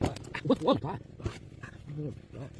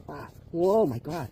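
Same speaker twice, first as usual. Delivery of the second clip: excited; 2 semitones higher, 6 dB louder than usual. Real, not acted. Fish on the line.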